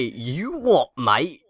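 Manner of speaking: put-on British challenge; British slang accent. Shown as a demonstration. Showing his preferred British phrase, British accent. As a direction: say it as a caricature British bloke. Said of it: "I prefer to say".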